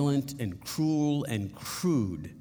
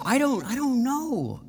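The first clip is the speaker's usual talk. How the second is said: retold answer; 11 semitones higher than usual. His own retold answer.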